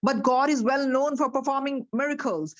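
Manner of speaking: slow, deliberate storybook reading; story narration. A narrator's reading. Teacher reads the story slowly to her class. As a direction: read it out slowly to the listeners.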